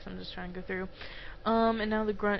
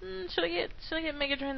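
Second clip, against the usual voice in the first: thinking aloud; 8 semitones higher, faster than usual. Retold or imitated. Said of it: "I was thinking".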